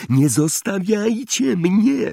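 high, drawn-out choked plea; slow pleading wail, held back; stifled cry. A narrator's reading. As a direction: call out in a strangled, high voice. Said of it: "zawołał Neville zduszonym głosem".

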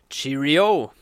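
booming tipsy toast; loud toast. Acted. Fat guest toasting the stripper, loud cheer. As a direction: lift the glass and bellow it out. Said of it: "rief der Dicke".

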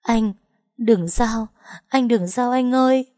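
wife crying over her fainted husband, pleading; tearful plea. A narrator's reading. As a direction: beg him through tears not to die. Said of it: "Tôi khóc tới tê lòng".

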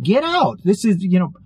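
sudden high urgent push to leave; urgent inner warning. Retold or imitated. Uncle's gut telling him to flee, high urgent command. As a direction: jump way up in pitch, urging yourself out.

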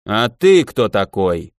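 low, slow booming voice from a helmet; inside a helmet. Acted. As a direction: drone it out under a visor. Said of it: "прогудел из-под шлема неприятный голос". (гулкий голос из-под шлема)

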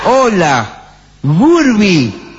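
a hint of an old cartoon voice; voz de dibujo animado. Shown as a demonstration. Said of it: "Más de dibujo animado". (voz de dibujo animado algo forzada)

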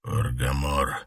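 low, rasping answer with a trace of a growl; a lightly rasped werewolf voice; hoarse reply. Acted. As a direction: answer hoarsely, voice still rough. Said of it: "хрипло ответил Питер".

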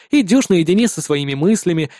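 ordinary delivery

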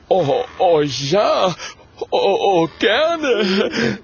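high, loud, stammering delight; breaking into excited oh-ohs; overjoyed. A narrator's reading. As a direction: gush with eager gratitude. Thrilled ghost accepts offered crypt.

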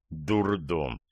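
low, soft, resigned sigh. A narrator's reading. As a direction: let the word out on a weary sigh. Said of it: "вздохнул Старков".

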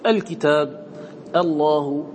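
"الكتاب" and "الله" each opened on a glottal "a"; initial hamza sounded. Shown as a demonstration. Teacher showing students how to begin, "الكتاب" and "الله" with hamza. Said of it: "نقول هذا بالهمزة".

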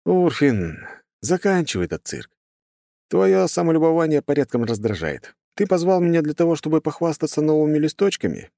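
high-pitched, exasperated hero voice; irritated hero. Acted. Hero tells off a vain god, irritated.

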